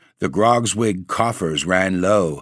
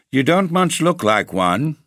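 scornful; 8 semitones higher than usual. Acted. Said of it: "returned the Baron scornfully".

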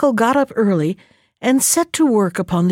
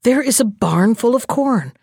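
exclaiming. Acted.

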